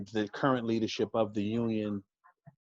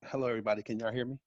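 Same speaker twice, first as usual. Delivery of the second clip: muffled behind a face mask; talking through a face mask; faster than usual. Real, not acted. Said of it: "I have the mask on".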